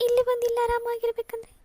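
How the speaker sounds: tearful, pitch climbing as she breaks down; weeping out her hurt to her sister; elder sister sobs to Rani about being rejected everywhere; crying. Acted. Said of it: "ಅಕ್ಕ, please ಅಕ್ಕ, ಅಳ್ಬೇಡ".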